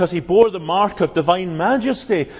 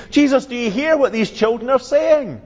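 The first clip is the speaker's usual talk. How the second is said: indignant priests; 5 semitones higher than usual. Retold or imitated. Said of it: "they go up to Jesus".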